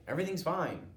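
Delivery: put-on loud, high defensive kid; insistent shout. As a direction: push the lie out loudly. Boy shouting denial at mom.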